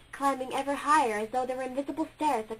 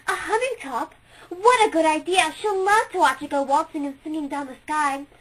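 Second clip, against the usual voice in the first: raised, louder, thrilled by the idea; delighted; 3 semitones higher, 8 dB louder than usual. A narrator's reading. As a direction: cheer the good idea.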